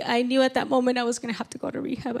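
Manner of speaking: normal talking voice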